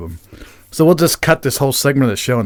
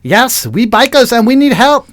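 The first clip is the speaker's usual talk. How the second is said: put-on high, loud Asian-accented plea; unintended Asian accent, pitched high and insistent; 9 semitones higher, 6 dB louder than usual. Newcomer asking bikers for help, high Asian accent. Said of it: "trying to do an Asian accent".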